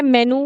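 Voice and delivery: "मेनू" ending in noo; wrong pronunciation. Shown as a demonstration. Teacher quoting what many people say, mispronounced "मेनू" without y glide. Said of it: "बोलते हैं बहुत लोग".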